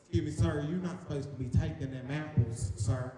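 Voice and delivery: lightly voiced North Carolina Southern lady; polite but scolding Southern accent. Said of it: "so it's Southern lady".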